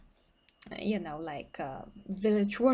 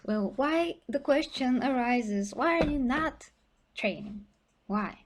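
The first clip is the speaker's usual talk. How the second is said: challenging why; 4 semitones higher than usual. Real, not acted. Challenges colleague, raised voice.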